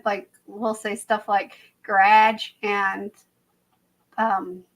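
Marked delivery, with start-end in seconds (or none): 1.8-2.5 "garage" said the Canadian way, squeezed to "gradge"; Canadian pronunciation. Retold or imitated. Quoting Canadian YouTubers, "garage" in Canadian pronunciation. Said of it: "YouTubers I watch that live in Canada".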